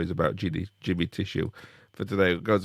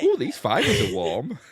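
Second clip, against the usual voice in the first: dad's cheeky remark; 4 semitones higher, 3 dB louder, slower than usual. Retold or imitated. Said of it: "come back in and go".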